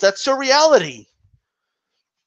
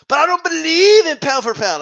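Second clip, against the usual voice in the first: mock skeptic; 7 semitones higher than usual. Mocking pound-for-pound skeptics.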